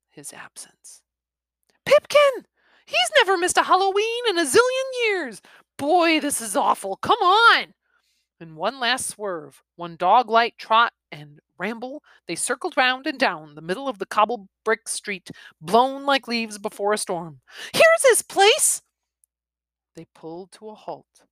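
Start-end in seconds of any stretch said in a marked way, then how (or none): 0.1-1.0 whispered, very soft; eerie whisper. A narrator's reading. Eerie hushed narration. 1.9-7.7 put-on high, loud, fast urgent kid; upset boy. Boy upset, urging others. 17.7-18.8 high, loud, slow call-out; excited call. Acted. Boy calls out arrival.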